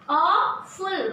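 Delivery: "Awful" drawn out as AWW-ful; long first syllable in "Awful", then a falling FUL; pronunciation demo. Shown as a demonstration. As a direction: sound out "Awful" in two clear syllables. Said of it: "kindly look at its pronunciation".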